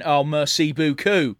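put-on slow "merci beaucoup" in a London accent; London accent French. Mimicking Del Boy thanking in French, slow London accent. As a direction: say it like a cheeky Londoner, slowly. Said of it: "London accent from Del Boy Trotter going".

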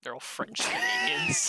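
very high, laughing delivery. Real, not acted. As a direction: say it through laughter. Joking about zombies.

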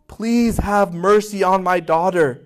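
drawn-out pleading mother; understated imploring mother's plea; slow imploring. Acted. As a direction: stretch the plea slowly, begging.

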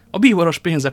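loud, high burst of amusement; laughing exclamation. A narrator's reading. Young man amused at the Cardinal's money, laughing exclamation. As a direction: crow with delight, as if about to laugh. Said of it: "kacagott fel D'Artagnan".

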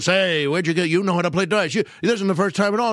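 accusing. Retold or imitated. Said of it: "Bud is accusing Lou".

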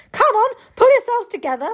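rally the others boldly; rallying call. Acted.

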